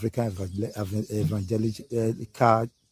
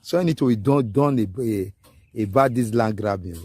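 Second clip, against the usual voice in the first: rallying call; 2 semitones higher, 5 dB louder than usual. Real, not acted. Rallying call to Edo people.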